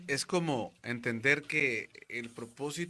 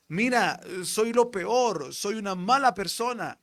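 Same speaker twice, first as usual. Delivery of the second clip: raised, slow pleading as a frightened friend; scared friend confessing; 4 semitones higher, 6 dB louder than usual. Retold or imitated. Friend arrives frightened, confessing he is the worst. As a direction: plead your guilt like a panicked friend. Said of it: "un amigo de él asustado".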